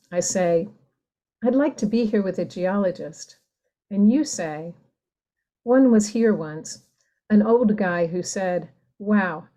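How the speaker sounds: unhurried reading with long pauses between images; poem reading. Acted. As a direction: read it like a poem to listeners. Reads her poem aloud.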